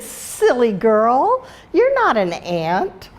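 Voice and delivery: slow, teasing sing-song; mocking ants. Ants laughing at Flutterby, slow teasing. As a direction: drag it out like mocking a child.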